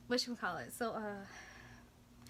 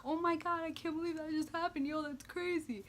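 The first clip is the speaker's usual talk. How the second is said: giddy disbelief; 7 semitones higher than usual. Retold or imitated. Giddy relief after near crash.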